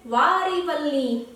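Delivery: slow, fond "वारी वल्ली" with "वारी" stressed. Retold or imitated. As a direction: draw out "वारी वल्ली" gently. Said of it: "खीवड़ बेन कहती है". ("वारी" पर ज़ोर देकर धीरे)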